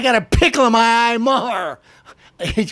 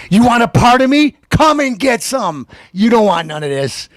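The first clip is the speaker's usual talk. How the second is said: mock tough-guy challenge. Taunting Bill Maher.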